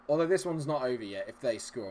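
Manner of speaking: ordinary talk, nothing marked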